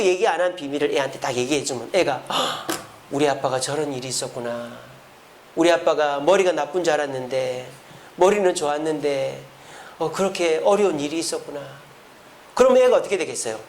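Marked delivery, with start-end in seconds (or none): 2.3-2.7 small mock gasp of realisation; acted gasp. Child hearing a father's secret, acted startled gasp. 3.1-11.6 lower, acted wondering sympathy; hushed realisation. Child understanding a father's hard past, hushed realisation.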